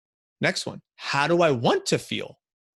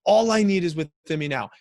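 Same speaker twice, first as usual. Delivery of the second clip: incantation; 4 semitones higher, 5 dB louder than usual. Shown as a demonstration. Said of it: "an incantation where I do it with my body".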